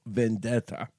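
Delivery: Vendetta. said alone, slow and ominous; menacing one-word vendetta; dramatic vendetta. Shown as a demonstration. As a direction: drop the word like a movie trailer. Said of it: "I have a vendetta to talk about today".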